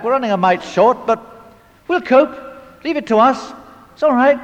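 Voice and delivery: a plucky frontline soldier, mildly acted; cheery soldier. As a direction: play it cheerful and unbothered under fire. Cheerful frontline soldier answering visitors.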